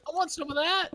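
squeaky, very high plea; high-pitched begging. Real, not acted. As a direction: beg for a share in a squeal. Begging for friend's loot.

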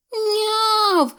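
high thin kitten meow; a small wet kitten mews. A narrator's reading. The rescued kitten meows high to Tim. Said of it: "сказало воно".

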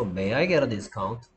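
slow, careful polite ask; polite request. Shown as a demonstration. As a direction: ask gently for a discount. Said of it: "좀 공손하게 표현해야 되겠죠". (공손하게 천천히)

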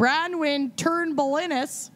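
put-on reading a name in a Minnesota accent; slow Minnesota accent. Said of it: "I'm gonna do it in a Minnesotan accent".

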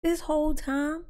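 high, laughing teasing; words through giggles; laughing while talking. Real, not acted. Friend teasing about forehead joke.

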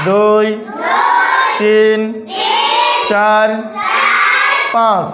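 slow, separate counts with pauses; counting aloud. Shown as a demonstration. Teacher counting aloud for pupils to repeat, deliberate. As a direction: call each number out for the class. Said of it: "এভাবে শিক্ষার্থীদেরকে তিনবার গণা".

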